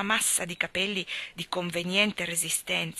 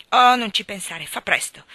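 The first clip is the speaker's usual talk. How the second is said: loud, stamping impatience; excited girl insisting loudly; impatient urging; 9 dB louder than usual. A narrator's reading. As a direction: hurry him along, pushy and eager. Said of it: "pestando un pochino i piedi".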